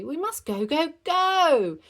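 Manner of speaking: rising hurried urging; urgent. Acted. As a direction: push them to hurry. Urging hurry.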